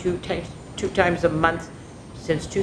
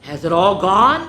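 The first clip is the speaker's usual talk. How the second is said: hopefully; 4 dB louder than usual. Acted. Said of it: "she asked hopefully".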